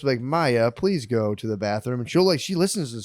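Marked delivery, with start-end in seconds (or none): 0.2-2.0 lightly voiced slow robot; slow even robot voice, barely put on. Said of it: "we'll talk in a robot voice".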